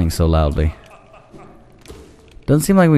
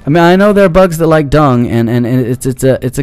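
disgusted whine; 6 semitones higher than usual. Real, not acted. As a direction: complain in revulsion. Disgusted scolding of dung boss.

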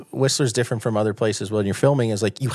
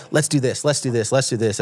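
mock eager; 3 semitones higher than usual. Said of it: "excited eyes".

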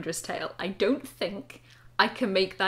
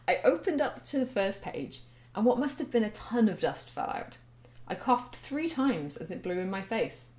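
story reading. Acted. A grown woman reads her old story to viewers, in a steady narrating voice. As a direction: narrate it like a book being read out.

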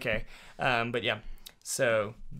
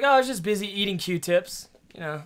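light high pet voice; a hint of a dog speaking; voicing the dog; 6 semitones higher than usual. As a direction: voice the dog as a silly girl. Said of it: "She's like".

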